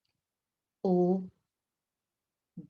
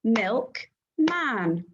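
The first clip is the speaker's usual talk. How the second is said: milkman said in two clapped beats, MILK then MAN; milk-man clapped apart; clapped syllables. Shown as a demonstration. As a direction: beat out each syllable. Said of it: "Ready to clap the syllables?".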